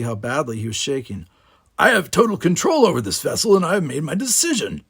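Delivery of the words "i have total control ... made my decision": raised commanding voice. Acted. Captain asserts command.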